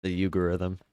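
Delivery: "algorithm" said as "uh-gorithm", the l dropped; deliberate "uh-gorithm" for "algorithm"; mispronounced on purpose. Shown as a demonstration. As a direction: repeat "algorithm" as "uh-gorithm", like a new word. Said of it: "That's my new word".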